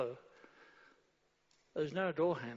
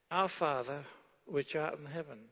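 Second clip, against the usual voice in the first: solemn recited prayer; reading the Lord's Prayer aloud to the church; prayer recitation. Acted. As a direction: intone it like a prayer.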